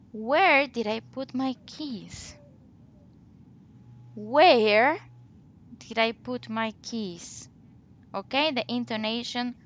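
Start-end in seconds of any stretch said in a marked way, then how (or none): 0.1-2.3 slow question, falling on "keys"; falling intonation. Shown as a demonstration. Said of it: "Falling intonation at the end of the sentence". 4.2-7.5 slow teacher demo, falling on "keys"; falling intonation. Shown as a demonstration. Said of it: "falls at the end".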